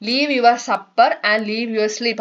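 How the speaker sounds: slow, sing-song nursery rhyme reading; poem recitation. Shown as a demonstration. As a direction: recite the rhyme slowly for children. Rereading poem line.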